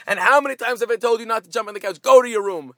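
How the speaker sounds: mock-stern dad sending the child away; scolding father. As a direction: tell the kid off, fed up. Father scolding kid on couch.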